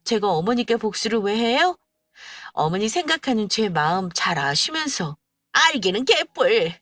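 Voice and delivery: a hint of a tearful, loud old woman; mother-in-law suspecting revenge; tearful accusation. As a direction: accuse through rising upset. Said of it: "울먹이며 말하기 시작했어요".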